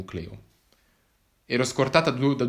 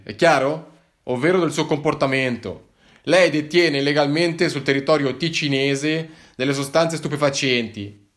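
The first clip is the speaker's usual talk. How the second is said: louder, higher officious lecture; lecturing cop; 3 semitones higher, 5 dB louder than usual. Acted. Policeman lectures the hiker about the law, pompous.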